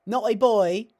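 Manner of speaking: put-on high, loud naughty-boy voice; hammed-up naughty tease; coy impression. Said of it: "it's a little more like".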